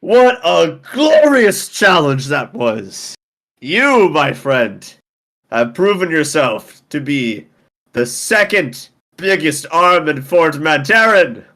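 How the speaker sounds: hammed-up hearty wrestler gloating; boastful champion. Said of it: "he slams the table and he's like".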